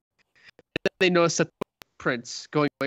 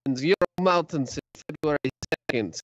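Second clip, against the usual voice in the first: mock-Russian storyteller accent; put-on Russian accent. Podcaster telling co-host about the skiers, put-on Russian accent. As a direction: tell it in a comic Russian accent. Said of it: "Should I do the Russian accent".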